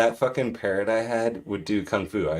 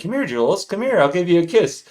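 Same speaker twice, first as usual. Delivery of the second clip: parrot voice; 7 semitones higher than usual. Retold or imitated. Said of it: "She'd be like".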